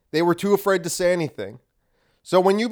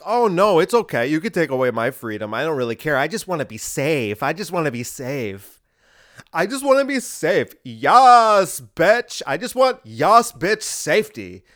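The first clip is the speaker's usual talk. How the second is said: mocking a compliant white man. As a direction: ham up a timid man begging for safety. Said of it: "That's a straight white man".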